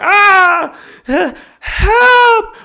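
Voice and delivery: very high, loud squeal for help; hammed-up high yelp of help; panicked cry for help. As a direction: shriek it like the dog has your arm. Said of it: "You're like".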